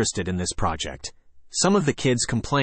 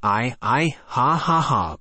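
laughing hard; 2 semitones higher, slower than usual. Acted. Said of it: "laughing so hard he couldn't G E T his words out".

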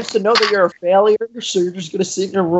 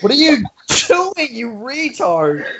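exasperated insult; 3 semitones higher, slower than usual. Acted. Champ berating his rival mid-promo, exasperated. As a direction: stretch out the insult in disbelief.

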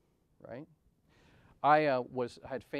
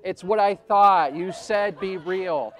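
high, loud and slow, laughing through the words; half-embarrassed laughing protest; laughing defensively; 7 semitones higher, 15 dB louder, much slower than usual. Real, not acted. Laughs defending his bridge fantasy.

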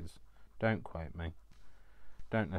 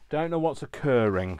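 quoting a phrase; 8 semitones higher, 11 dB louder than usual. Retold or imitated. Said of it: "to quote a, um, Julie phrase".

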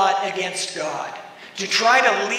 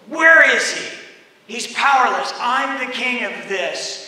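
defiant rebels. Acted. Rebels defying God.

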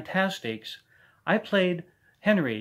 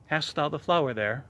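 classical stage recitation in measured phrases; Shakespearean monologue. Acted. Amateur actor performs a Midsummer Night's Dream monologue, theatrical verse delivery. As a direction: recite Shakespeare as verse, pausing between lines. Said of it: "I'm doing a monologue from A Midsummer Night's Dream".

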